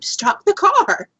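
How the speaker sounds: high, loud, drawn-out cry; retold scream. Passenger sensing Bigfoot energy to the driver, retold scream. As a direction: call out urgently, stretching the words. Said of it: "and I screamed".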